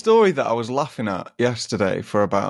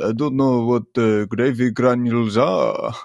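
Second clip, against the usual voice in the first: puzzled man with imitated German accent; lightly put-on German-accented English; Opek. German man baffled by the boy, imitated German accent. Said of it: "And Opek was like".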